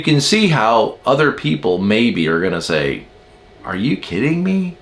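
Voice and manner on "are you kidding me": higher, hushed mock disbelief; incredulous. Other people reacting to a rigid world, incredulous. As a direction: softly imitate someone who can't believe it.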